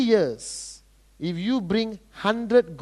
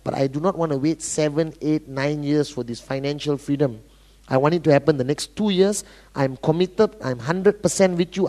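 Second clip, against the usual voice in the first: determined prospect; 7 semitones lower than usual. Acted. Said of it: "you got somebody who walks up to you".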